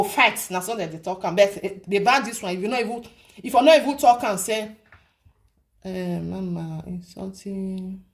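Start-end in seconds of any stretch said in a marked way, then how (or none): 5.8-8.0 soft, slow and lower; quiet, slowed-down quoted voice; hushed acted aside. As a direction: say it low and drawn-out, as a quote. Acted hesitant quote to mama.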